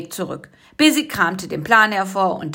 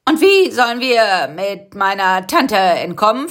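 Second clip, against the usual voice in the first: worried question; 4 dB louder than usual. Acted. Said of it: "fragte Karl-Heinz".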